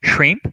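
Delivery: "shrimp" with a light, quick P at the end; final P in shrimp. Shown as a demonstration. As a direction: let the P of "shrimp" just touch at the end. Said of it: "De P". ("shrimp" com o P final leve)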